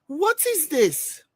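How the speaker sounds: high, slow, laughing what is this; laughing disbelief. Real, not acted. Live host laughing at the absurd video. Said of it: "I said".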